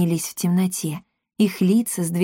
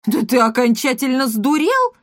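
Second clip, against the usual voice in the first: higher, louder indignant outburst; outraged; 6 semitones higher, 3 dB louder than usual. A narrator's reading. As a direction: bristle at an absurd demand. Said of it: "возмутился господин Монпансье".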